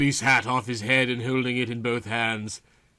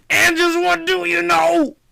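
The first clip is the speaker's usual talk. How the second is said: detective asking; 7 dB louder than usual. Acted. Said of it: "Andrew asked".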